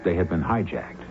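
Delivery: calm, measured storyteller's opening; mystery host narration. A narrator's reading. Host welcoming radio listeners to the mystery, calm narration.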